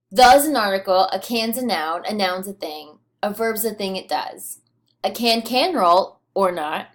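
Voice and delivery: a lightly performed recital of a playful villanelle; poem reading. Acted. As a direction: read the poem aloud with a gentle lilt on each refrain. Reads villanelle aloud to students.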